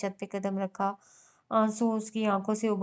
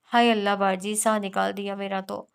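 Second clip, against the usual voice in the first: louder, startled yelp of fright; a maid jolted by a door flung open; mildly startled servant's cry; 4 dB louder than usual. Acted. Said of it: "वो होल कर बोली थी".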